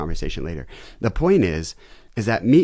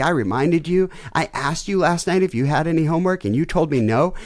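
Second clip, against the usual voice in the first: high, loud scolding dad lecture; stern father laying down the law; lecture mode; 9 semitones higher, 5 dB louder than usual. Retold or imitated. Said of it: "We go into lecture mode".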